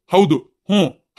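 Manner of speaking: ಹೌದು and ಹ್ಞೂ said slowly as a model answer; a slow, deliberate ಹೌದು, ಹ್ಞೂ; slow agreeing demo. Shown as a demonstration. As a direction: show her how, slowly. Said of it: "ಹೌದು ಅನ್ಬೇಕ್ ನೀನು".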